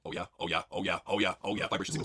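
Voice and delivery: mock moaning. Moaning character.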